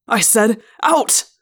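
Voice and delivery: loud furious roar. A narrator's reading. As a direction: roar the order. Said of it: "Chapman roared".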